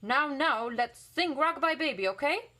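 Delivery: mock-motherly children; kids coaxing. A narrator's reading. Kids treating the daddies like babies, high and coaxing. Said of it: "kids will pick them up and say".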